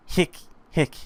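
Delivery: short, sharp crying hiccups; acted hitching sob; pained sob hiccup. A narrator's reading. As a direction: hiccup as if choked by sobs. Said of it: "A pained voice".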